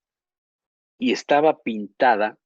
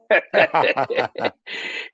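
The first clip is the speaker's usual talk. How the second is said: laugh; 6 semitones higher, 4 dB louder than usual. Real, not acted. Laughing at own joke.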